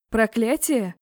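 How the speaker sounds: ordinary delivery, nothing marked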